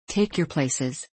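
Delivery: drawn-out porter's call, unhurried; slow, deliberate call to board; slow repeated call. Acted. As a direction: stretch the words out like a tired porter. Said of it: "cried the unseen porter".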